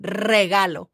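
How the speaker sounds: Regalo with a long trilled R; rolled R. Shown as a demonstration. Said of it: "Are you enjoying those R's".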